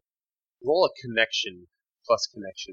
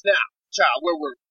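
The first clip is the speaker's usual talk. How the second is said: intense female character; 8 semitones higher than usual. Acted. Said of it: "And she says".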